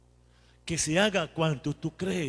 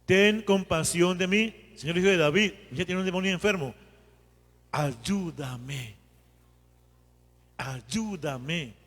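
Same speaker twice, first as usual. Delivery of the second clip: oración completa; 2 semitones higher than usual. Shown as a demonstration. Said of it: "Entonces juntemos".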